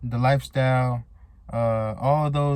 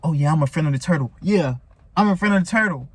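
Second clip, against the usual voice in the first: fast, higher gloat, getting louder; mock gloating; 4 semitones higher, 3 dB louder, faster than usual. Rabbit boasting past the turtle, mock excited. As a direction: crow about pulling ahead.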